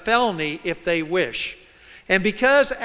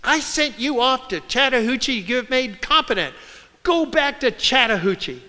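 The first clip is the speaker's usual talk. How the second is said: higher-pitched scolding judge; imitated judge; 5 semitones higher than usual. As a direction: lightly voice a judge sending someone away. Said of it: "the judge looked down and said".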